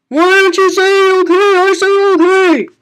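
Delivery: loud, high insistent call; mock demand. Youtuber demanding viewers say okay, loud and high. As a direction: demand the answer playfully.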